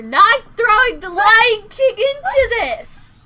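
high, loud mock outrage; loud laughing protest. Real, not acted. Friend protests the Lion King song, loud mock outrage. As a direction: shut down the singing, half laughing.

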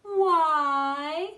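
put-on high, loud childlike why; loud high kid's why; children asking. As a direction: squeal it like a small child. Children ask in chorus.

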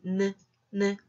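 느 as a short isolated N sound, twice; short, separated 느 beats; letter sound demo. Shown as a demonstration. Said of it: "알파벳 N은".

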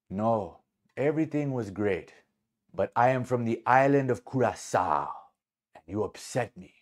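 lightly imitated Curaçao accent; measured reply in an attempted Curaçao accent. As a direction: honor a Curaçao man's accent, gently. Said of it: "do my best to, to honor this man's accent".

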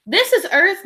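a hint of a patient mother; lightly voiced mother. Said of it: "her mother said".

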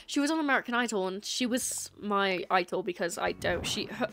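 put-on chatting in an amateur British accent. Streamer trying British mode for chat, amateur British accent. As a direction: attempt a British accent, conversationally. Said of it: "spoke like this".

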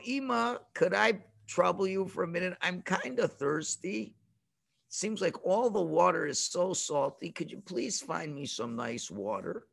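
soft, sweet, polite request to mother; polite ask. Shown as a demonstration. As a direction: ask nicely, almost gently. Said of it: "Let's look at the first way".

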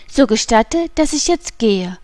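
slightly hesitant request; uncertain voice. A narrator's reading. Shopkeeper asking his wife to let him go, uncertain. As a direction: ask leave with a touch of uncertainty. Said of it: "bat der Krämer mit unsicherer Stimme".

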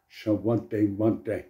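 "Shawaddy Waddy" with "Sha" instead of "Show"; mispronounced band name. Shown as a demonstration. How he says the band's name in his head, playful mispronunciation. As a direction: turn the band's name into "Shawaddy Waddy". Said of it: "always pronounced in my mind".

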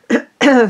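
sharp clearing of throat. Real, not acted. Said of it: "I'm losing my voice".

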